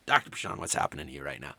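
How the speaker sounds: whispered, as if asking behind the teacher's back; soft whispered aside; whispered question. Retold or imitated. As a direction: hush it like a puzzled student. Voicing the students' puzzled question.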